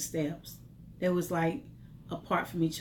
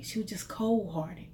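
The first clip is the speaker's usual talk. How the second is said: whisper. Real, not acted. Bitter aside about the boss.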